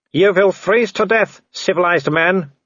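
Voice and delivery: high, slow, called-out threat; taunting villain. Acted. Werewolf threatening the treed man, high slow taunt. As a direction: draw out the mocking threat.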